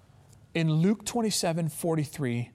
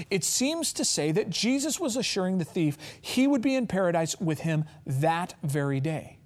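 ordinary delivery

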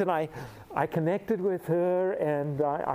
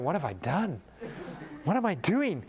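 panicked self-question; 3 semitones higher than usual. Retold or imitated. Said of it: "I'm looking at her and I'm going".

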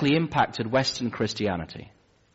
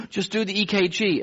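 higher, strained request; breathless plea; 10 semitones higher than usual. Retold or imitated. Breathless patient pleading with the nurse, strained. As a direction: gasp the words out. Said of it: "gasping for breath".

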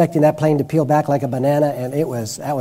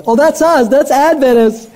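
higher, louder, mocking a proud congregation; smug mock boast; 9 semitones higher, 6 dB louder than usual. Preacher mocking church members' proud claim, smug high voice. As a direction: parody their self-satisfied claim, pitched up. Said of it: "but we as a people say".

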